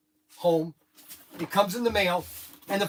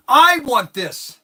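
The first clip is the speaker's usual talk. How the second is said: longing; 6 semitones higher, 11 dB louder, much slower than usual. Retold or imitated. Guy longs for the set.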